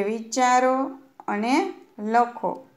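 વિચારો અને લખો spelled out slowly; teacher spelling out the task; slow instruction. Shown as a demonstration. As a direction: read the task slowly for the class. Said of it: "શું કીધું છે?".

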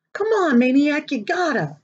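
won't take no for an answer; eager pleading. Acted. Kids pleading with Maniac.

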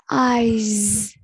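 "Eyes" with a long buzzing final z; teacher's careful "Eyes", ending in a voiced z. Shown as a demonstration. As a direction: model "Eyes", holding the z. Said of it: "âm giờ".

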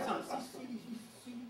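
high, thin creeper song through a laugh; lightly sung brown creeper mnemonic, tinny E sounds; high tinny bird imitation. Shown as a demonstration. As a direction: chirp it like a tiny bird, slowing at the end. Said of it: "it's just like".

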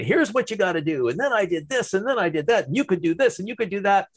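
flat, fast radio announcer patter; quick, even, samey delivery with no ups or downs; monotone radio voice. Retold or imitated. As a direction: rattle it off like a radio host with no dynamics. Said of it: "put on their radio voice and they talk like this".

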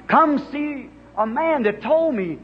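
a woman running to tell the town, lightly voiced; excited calling out. Woman telling townspeople, excited cry.

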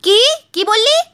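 high, loud shocked cry. Acted. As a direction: gasp it out in alarm. Wife shocked by news.

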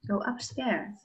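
slow, careful "Go upstairs or go downstairs."; slow model phrase. Shown as a demonstration. Teacher drills the phrase for the pupil, slowly. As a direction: spell out each word for a child to repeat.

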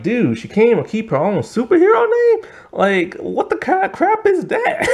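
high, outraged disbelief; rising in outrage at the absurdity; exasperated. Retold or imitated. Ranting about lost superhero name.

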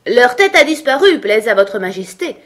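loud report, high then easing down; calling back. A narrator's reading. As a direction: shout the answer up to a sovereign. Soldiers call back to the queen.

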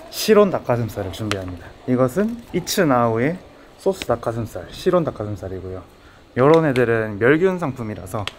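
muffled by cloth mask; speaking behind mask; through a face mask. Real, not acted. Seen 0: Speaker wears black face mask throughout the labelled words.

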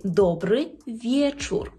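добрий вєчур slowly, vye-chur; clear ye. Shown as a demonstration. Teacher teaches a Polish greeting, ye in вєчур. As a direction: say вєчур with a distinct glide. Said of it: "читати як Є".

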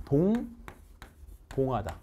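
동봉하다 stretched very slowly and softly; drawn-out model word. Shown as a demonstration. Teacher drawing out 동봉하다 for students to repeat. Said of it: "시작".

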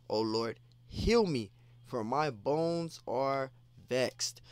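pleading scripture reading. Acted. Preacher reading David's plea to the Lord, pleading and slow. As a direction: beg the Lord for healing, then slow right down.

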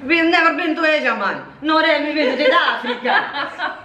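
put-on Jamaican accent. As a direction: lay on a Jamaican accent, fast.

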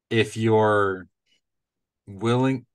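"you're" in a Midwestern accent, like "yor". Real, not acted. Podcaster owning up to the accent, Midwestern "you're". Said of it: "in my Midwestern accent".

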